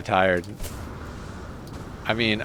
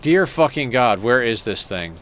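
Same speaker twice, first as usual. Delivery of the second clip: exasperated; 3 dB louder than usual. Real, not acted. Can't find the quest NPC.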